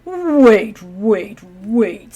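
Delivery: startled. Acted. Man startled by the job.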